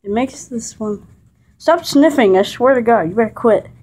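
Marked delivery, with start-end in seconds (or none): 1.6-3.7 scolding the dog, loud and exasperated. Real, not acted. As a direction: tell the dog off in frustration.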